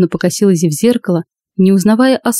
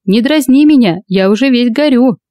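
put-on heckling drunk voice; 4 semitones higher than usual. Heckler teasing from the crowd.

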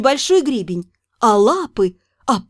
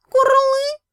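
glum; 11 semitones higher than usual. Acted. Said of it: "уныло".

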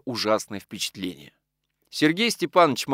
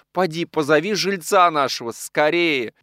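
urgent raised order; crying out; 5 semitones higher, 4 dB louder than usual. A narrator's reading. Widow sends the maid for the lodger, urgent cry. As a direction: send her off in alarm. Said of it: "закричала она".

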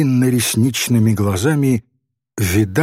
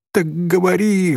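put-on higher-pitched girl's plea; mildly imploring, raised pitch; pleading; 7 semitones higher than usual. A narrator's reading. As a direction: beg him to speak. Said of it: "взмолилась Софичка".

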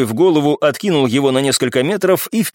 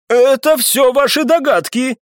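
high, slow, heated denial; angry outburst with raised pitch; flaring up; 11 semitones higher than usual. A narrator's reading. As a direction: snap back hotly, stretching the words. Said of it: "вспылил Виконт".

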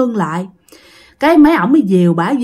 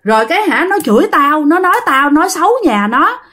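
higher-pitched, agitated account; rattled storytelling neighbour; 7 semitones higher than usual. Acted. Shaken woman telling bakers about the ghosts, agitated voice. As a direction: recount the haunting in lightly acted dismay.

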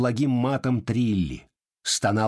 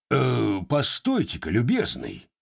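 commanding bass; 2 semitones higher than usual. Acted. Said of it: "начальственным басом протянул".

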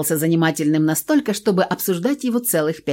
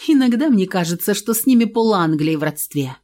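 snorting. Acted. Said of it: "фыркнула Луиза".

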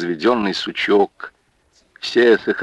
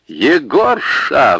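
louder, drawn-out high call; shrill call; 7 semitones higher, 4 dB louder, much slower than usual. Acted. Варвара calling to the accordion player, loud. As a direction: call out sharply to Егорша. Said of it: "взвилась Варвара".

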